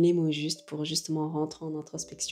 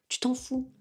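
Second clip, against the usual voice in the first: higher and punchier second time, tu t'en fous with the pitch jumping up; emphatic repeat; 8 semitones higher than usual. Real, not acted. Vlogger to viewer shrugging off others' judgement, higher defiant repeat. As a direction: throw it off with a bright, defiant lift.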